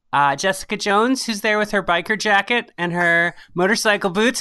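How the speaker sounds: ordinary talk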